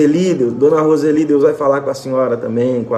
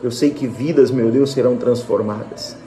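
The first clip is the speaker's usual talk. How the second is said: fervent prayer. Acted. Pastor praying over his live audience, fervent prayer. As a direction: pray it out to God, building gently.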